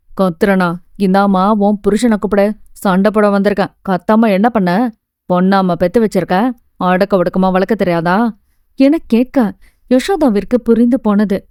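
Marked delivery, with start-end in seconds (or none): 0.1-8.2 a lightly lowered, mildly angry gardener. Acted. Gardener complaining to the mother about her daughter, mildly angry lowered voice. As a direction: complain at the door, a hint of grumbling anger.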